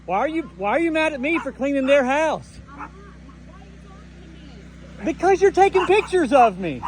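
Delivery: indignant protest, pitched well up; high-pitched voice. Real, not acted. Worker arguing over being blamed for cleaning a house, high-pitched. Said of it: "That was my high-pitched voice".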